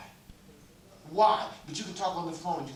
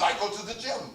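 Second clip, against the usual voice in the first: higher-pitched mock French accent; 5 semitones higher, 3 dB louder than usual. Preacher retelling the French lady's answer, mock French accent. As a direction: repeat it in an imitated French accent. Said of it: "with the French accent".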